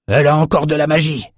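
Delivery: high, fast alarmed shout; alarmed cry. A narrator's reading. Rome warning his mates, a fast high shout. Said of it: "cria Rome".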